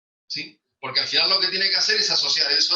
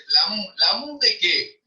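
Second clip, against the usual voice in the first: imitating a child; 4 semitones higher, slower than usual. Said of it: "los niños cuando empiezan dicen".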